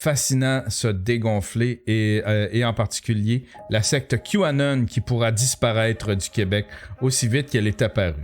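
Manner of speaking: low, measured read; commentary read aloud. Real, not acted. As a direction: read it out like a written editorial. Reads out a prepared commentary.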